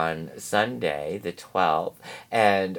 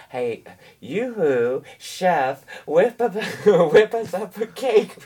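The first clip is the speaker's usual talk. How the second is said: calling out; 8 semitones higher, 5 dB louder than usual. Pretend. Calling out to the chef.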